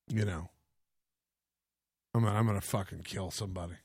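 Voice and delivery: very soft, low grumble; muttering under breath. Real, not acted. Muttered aside.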